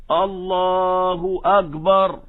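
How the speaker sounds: الله أكبر with the kaf voiced like a jim, drawn out slowly; imitating a muezzin who says أكبر as agbar; wrong jim for kaf. Shown as a demonstration. Reciter demonstrates the common mispronunciation, slow and drawn out. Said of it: "هو قصد الكاف ... فانقلبت جيم".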